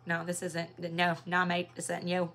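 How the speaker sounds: lightly imitated New Zealand accent; rough mock Kiwi accent of a border officer; horrible Aotearoa accent. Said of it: "That was a horrible Aotearoa accent".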